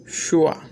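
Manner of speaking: "Shua" set apart after a pause; syllable demonstration. Shown as a demonstration. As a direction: sound out "Shua" as the second syllable. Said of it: "e a segunda sílaba".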